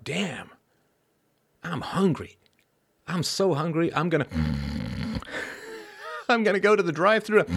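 high-pitched mock drunk self-talk, breaking into laughs; lightly voiced drunk. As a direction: play a hungry drunk, cracking up between phrases. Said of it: "how drunk do you have to be".

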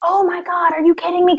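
high, incredulous mocking gasp; hammed-up scandalized crowd voice; mocking the lesbians outside the bar, scandalized; mock outraged lesbians. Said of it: "this mass of lesbians are just like".

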